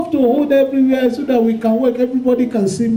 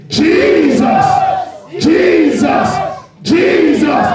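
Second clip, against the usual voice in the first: shouting Jesus; 6 semitones higher, much slower than usual. Shown as a demonstration. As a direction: shout the name Jesus like a soldier. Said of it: "you shout that name Jesus three times".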